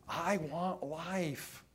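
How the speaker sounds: slow, drawn-out plea; understated yearning, very slow; basic heartfelt cry. Acted. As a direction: stretch it out as a mild cry of longing. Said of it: "the basic cry is".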